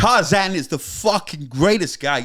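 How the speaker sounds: slow, loud impression sounding like Christopher Walken; hammed-up documentary character voice; Tony Yester. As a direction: declare it slowly in a put-on accent. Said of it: "That's been Christopher Walken the whole fucking time".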